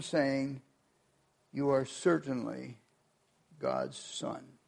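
measured, emphatic Bible reading to the congregation; preacher reading Matthew aloud to his church, solemn and deliberate; scripture reading. Acted. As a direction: read the Gospel with weight and pauses. Reads the Gospel passage aloud.

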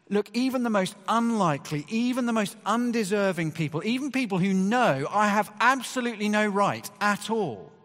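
high, loud impassioned preaching; rising preaching climax. Real, not acted. Preacher urging the congregation, loud high impassioned build. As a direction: lift it to the peak of the sermon.

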